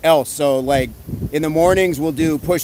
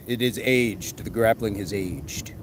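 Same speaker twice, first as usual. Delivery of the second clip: put-on lower, slow creaky old-man voice; mock old-timer voice; 5 semitones lower, 7 dB quieter, slower than usual. Streamer joking grappling is ancient, mock old-man voice. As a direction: drop into a slow, croaky elder.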